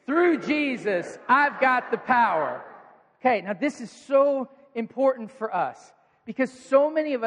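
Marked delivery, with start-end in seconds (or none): 0.0-2.6 slow, strong declaration; with conviction. Shown as a demonstration. Preacher showing the church how to say it with power. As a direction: say it like you mean it, slowly. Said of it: "Say it with some conviction and power".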